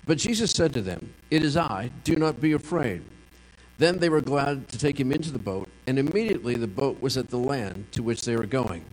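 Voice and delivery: measured, formal Bible reading; scripture reading. Acted. Pastor reading John six aloud to the congregation, measured. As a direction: read the passage steadily to the congregation.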